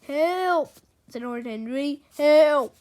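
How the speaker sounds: a staged "help" shout; acted cry for help. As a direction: call out in feigned alarm.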